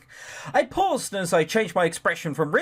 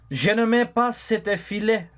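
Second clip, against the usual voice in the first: put-on French accent; 4 semitones higher than usual. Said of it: "Okay, so French".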